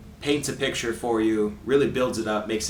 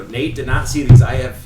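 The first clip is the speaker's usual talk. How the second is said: much louder than usual talk; too loud; 13 dB louder than usual. Real, not acted. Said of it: "that was too loud".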